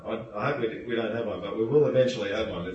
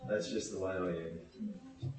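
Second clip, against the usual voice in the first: 1 mumbled excuse; 5 semitones lower, 12 dB quieter, slower than usual. Retold or imitated.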